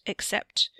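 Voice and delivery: voiceless, hesitant fade; trailing off. A narrator's reading. Theo, unsure what to tell Wesley, trailing off. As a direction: let the word die away unfinished. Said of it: "he trailed off".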